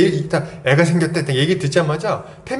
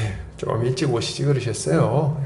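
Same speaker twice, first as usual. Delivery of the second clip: bitter sigh; 5 semitones lower, 4 dB quieter than usual. Retold or imitated. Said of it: "약간 이런 웃음이라고".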